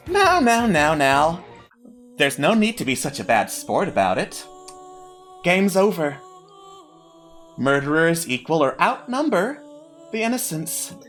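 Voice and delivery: smug, patronising villain. Acted. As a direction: purr it out like a gloating host. GM voices villain hostess.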